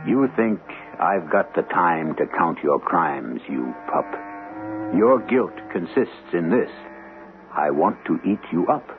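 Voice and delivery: a hint of a growling old wolf threatening the lamb; mild mock menace of a hungry wolf; angry old wolf. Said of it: "Said the angry old wolf".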